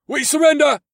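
high, loud, desperate surrender cry; shaking shout. Acted. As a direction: shout it out in a panic. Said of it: "his shaking voice echoed through the cavern".

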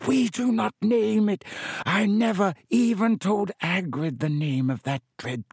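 high, fierce creature voice. A narrator's reading. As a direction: refuse fiercely as the giant spider. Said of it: "said Aragog fiercely".

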